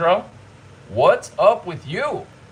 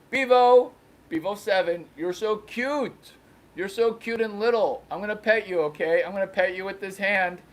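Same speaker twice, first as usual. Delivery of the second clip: put-on cooing baby talk; 5 semitones higher, 5 dB quieter than usual.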